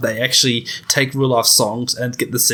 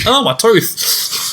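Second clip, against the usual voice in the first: pained; 9 semitones higher, much slower than usual. Real, not acted. Bit hard brownie, tooth hurts.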